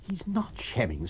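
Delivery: not stressed, quiet and grave. A narrator's reading. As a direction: firmly stress not, softly. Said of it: "said the doctor".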